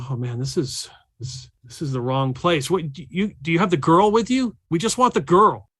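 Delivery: lightly voiced suited man; hint of a weary villain. Doctor Gonzalez confronting them, lightly voiced rising demand. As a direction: grumble then demand. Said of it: "He's like".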